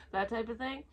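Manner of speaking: normal talking voice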